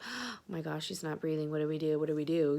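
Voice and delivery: gasped, hushed mock panic; understated, murmured alarm; retold worry. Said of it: "they were worried".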